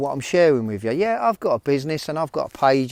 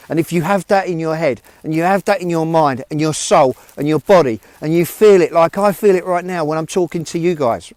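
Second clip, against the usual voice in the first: building, louder and higher, from the heart; passionate; 3 semitones higher, 5 dB louder than usual. Real, not acted. Telling struggling viewers they can change, passionately louder. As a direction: pour real conviction into every phrase. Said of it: "but I get passionate about it".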